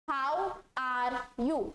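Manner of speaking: very slow, each word separate; spelled-out reading; read as written. Shown as a demonstration. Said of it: "इसको कैसे पढ़ेंगे".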